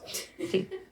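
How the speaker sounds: small high snicker; sly little laugh; high, soft gloating chuckle. Acted. Schemer gloats at mission accomplished.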